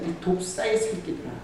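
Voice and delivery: ordinary talk, nothing marked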